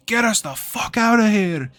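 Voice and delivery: high, loud yell to flee; urgent shout. Acted. Wizard yelling at the driver to flee. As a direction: bark the order to get out now. Petros repeats order to flee.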